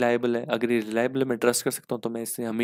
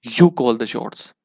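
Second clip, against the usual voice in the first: mock friends' call; 7 dB louder, much slower than usual. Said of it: "वो बोलते हैं कि".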